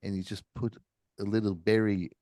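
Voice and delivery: put-on a weak, terrible New Zealand accent. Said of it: "I'm doing a terrible New Zealand accent".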